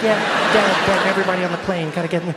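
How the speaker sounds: loud laughing panicky voice. Retold or imitated. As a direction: laugh through a panicked line. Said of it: "she's like".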